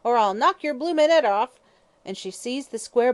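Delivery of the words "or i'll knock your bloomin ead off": much higher, loud furious yell; vicious yell. Acted. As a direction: scream her down in rage. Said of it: "yelled Mother Guttersnipe viciously".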